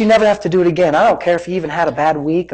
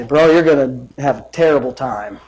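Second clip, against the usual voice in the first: low, offhand buddy tone; casual everyday talk; 6 semitones lower, 3 dB quieter than usual. Shown as a demonstration. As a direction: say it low and conversational. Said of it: "I just talk like that".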